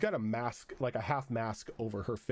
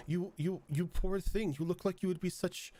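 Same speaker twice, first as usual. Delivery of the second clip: a lightly voiced, higher, haughty French lady, badly faked; half-hearted French accent for a snooty masked hostess; attempted French accent; 7 semitones higher than usual. The bathhouse hostess greets the muddy guest, in a mock French accent. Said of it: "I can't do a French accent".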